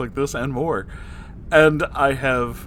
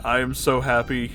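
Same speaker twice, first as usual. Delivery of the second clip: ordinary talk, nothing marked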